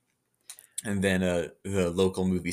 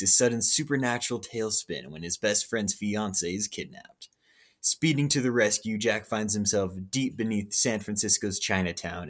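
movie trailer voice. Acted. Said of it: "I should be the new, uh, movie voice guy".

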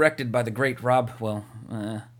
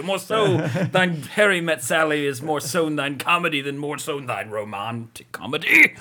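Shakespearean actor; 3 semitones higher, 4 dB louder, slower than usual. Pretend. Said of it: "some Shakespeare up here".

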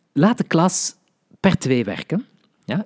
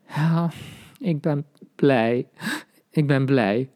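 sad; 3 semitones higher, slower than usual. Shown as a demonstration. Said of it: "Je zegt dat verdrietig".

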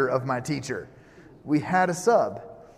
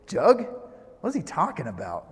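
hammed-up baffled listener; mock bafflement; 2 semitones higher than usual. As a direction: echo the odd word in exaggerated confusion. Voices the puzzled listeners' question.

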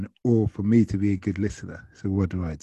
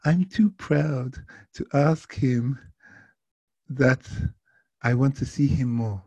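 slow, slightly raised mock French accent; attempted French accent; 4 semitones higher, slower than usual. Proud passenger confiding in driver, rough French accent. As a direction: try your best amateur French accent, slowly. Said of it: "I cannot do a French accent, but I will try my best".

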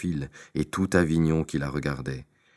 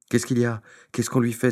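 voix nettement plus aiguë, inquiète; le pape s'alarme depuis son balcon; cri alarmé du pape; 8 semitones higher than usual. Acted. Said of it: "s'écria le bon pape". (pape inquiet qui s'écrie d'une voix aiguë)

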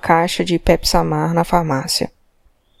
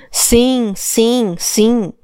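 exasperated louder; 4 semitones higher, much slower than usual. Acted. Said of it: "Mais alto".

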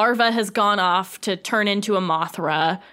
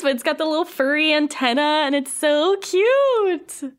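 gushing; 5 semitones higher than usual. Real, not acted. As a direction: swoon over something adorable. Gushing over baby Mothra.

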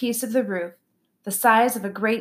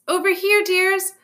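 put-on delighted old poodle; 11 semitones higher, 3 dB louder than usual. A narrator's reading. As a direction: coo like a fond grandma. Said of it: "in a delighted voice".

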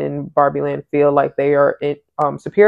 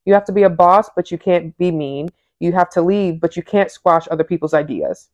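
reading aloud. Acted. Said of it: "I'm gonna read".

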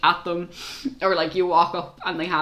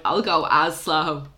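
slow, unhurried delivery; slower than usual. Retold or imitated. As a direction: stretch it out, refusing to be rushed. Saying it as slow as claimed.

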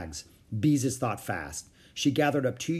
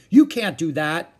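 higher, louder indignant hey; protested; 5 semitones higher, 9 dB louder than usual. A narrator's reading. Howie protesting the unplugged vacuum. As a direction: object loudly. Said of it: "protested Howie".

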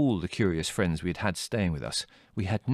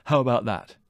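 higher-pitched pleased boast; triumphant; 4 semitones higher, 4 dB louder than usual. A narrator's reading. Leslie capping his plan for the family, triumphant. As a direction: show off the clever plan. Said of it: "suggested Leslie triumphantly".

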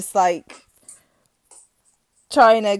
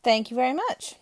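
out of breath; 8 dB quieter, faster than usual. Real, not acted. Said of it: "Just gonna catch my breath again".

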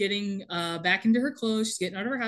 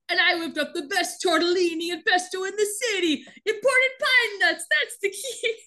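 smug Michael; 8 semitones higher than usual. Retold or imitated. Michael boasting about dinner.

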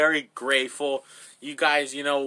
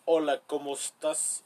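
Spanish with an attempted British accent; 3 dB quieter than usual. Shown as a demonstration. Testing a British accent in Spanish, tentative attempt. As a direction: try speaking Spanish like a Brit. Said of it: "Try to do a British accent in Spanish".

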